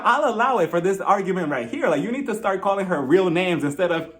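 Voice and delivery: ordinary talk, nothing marked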